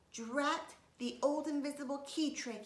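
loud, high frustrated grumble; loud exasperated boy. A narrator's reading. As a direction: curse the trick out loud. Sheldon frustrated.

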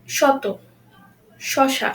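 each শ in শত, শশা a clear sh; palatal sh. Shown as a demonstration. Teacher models example words apart, শত, শশা with palatal sh. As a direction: say শত, শশা with "sh": "shoto, shosha". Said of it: "তালিবস্যর মতে উচ্চারণ হচ্ছে".

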